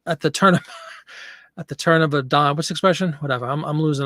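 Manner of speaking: breathless after a walk; out of breath. Real, not acted. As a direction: talk while catching breath. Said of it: "I'm out of breath tonight".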